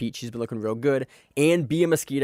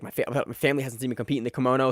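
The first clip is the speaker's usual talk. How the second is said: put-on Brazilian accent; much faster than usual. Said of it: "using a Brazilian accent there".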